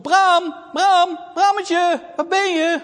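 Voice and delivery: high, loud, slow call into the woods; drawn-out search call. Acted. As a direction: call out for him in the dark. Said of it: "En ze roept".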